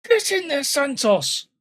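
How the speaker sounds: a burst of real joy; excited cheer. Real, not acted. Celebrating a penalty save.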